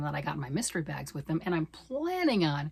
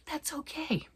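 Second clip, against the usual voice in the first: whisper; 9 semitones higher, 6 dB quieter, slower than usual. Real, not acted. Late-night confession, past bedtime.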